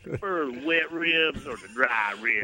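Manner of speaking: slow Tennessee drawl; unhurried Tennessee twang; Tennessee accent. Shown as a demonstration. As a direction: say it slowly in your own Tennessee accent. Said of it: "Let me hear your Tennessee accent".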